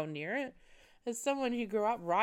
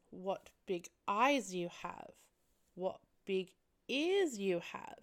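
lightly voiced creepy little girl; slow, drawn-out storybook wonder; creepy kid; slower than usual. Girl cooing to the horse, slow creepy kid voice. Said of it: "this kid's voice".

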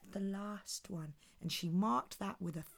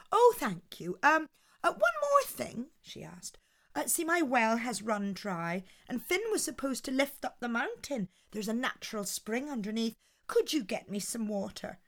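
lightly voiced sweet Una; 3 semitones higher than usual. Una coaxes the giant for water, lightly sweet.

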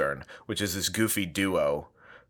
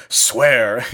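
haunting voice; 4 semitones higher, 7 dB louder than usual. Acted. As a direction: ghostly wail from below the stage. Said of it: "in a ghostly voice".

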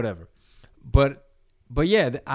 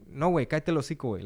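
fast, higher snap of a comeback; quick dismissive retort; 4 semitones higher, much faster than usual. Retold or imitated. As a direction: brush them off fast in Spanish slang. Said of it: "And it's like".

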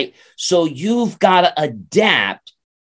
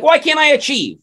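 mock whine; 12 semitones higher than usual. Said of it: "And like".

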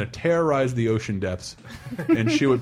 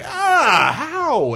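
surprised squeak; 5 dB louder than usual. Retold or imitated. Retold surprised question to dad.

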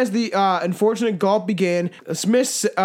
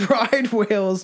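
hiccup giggles; 2 semitones higher, slower than usual. Real, not acted. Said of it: "stop making me laugh".

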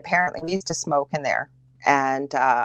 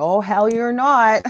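higher, louder retort, re-enacted; emphatic contradiction; 5 semitones higher, 5 dB louder, slower than usual. Wife re-enacting her retort to her seizing husband, emphatic disbelief. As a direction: act out flatly refusing to believe it. Snaps back at husband's claim.

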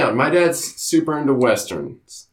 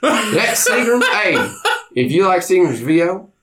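lightly voiced drunk country dad, raised pitch; imitating his pa. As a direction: ham up a boozy hick father bragging about whiskey. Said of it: "I'm about to start talking like this".

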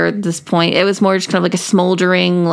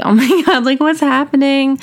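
higher-pitched mock panic with a laugh; retold freak-out; 4 semitones higher than usual. Retelling her fright at a fire, lightly freaking out. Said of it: "I'm freaking out, crying".

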